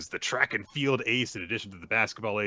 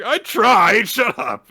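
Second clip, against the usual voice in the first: loud, higher flustered comeback; embarrassed retort; 13 semitones higher, 13 dB louder, slower than usual. Retold or imitated. Embarrassed boy snapping back at his teasing friend, loud flustered. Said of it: "He's like".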